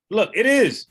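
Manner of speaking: mock elder insisting, high and loud; hammed-up stubborn elder; defensive elder. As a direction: imitate a stubborn elder shooting back. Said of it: "he'd be like".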